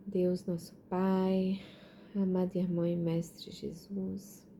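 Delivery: slow, reverent prayer voice. Real, not acted. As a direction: address God slowly and devoutly. Opening a prayer.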